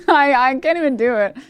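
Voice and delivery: laughing at a failed impression. Real, not acted. Cracking up at own failed impression.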